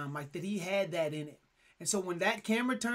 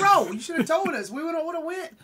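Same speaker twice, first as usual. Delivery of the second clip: louder, higher retold complaint; mock protest; 7 semitones higher, 7 dB louder than usual. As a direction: protest loudly to a friend who left you out. Acted protest at being left out.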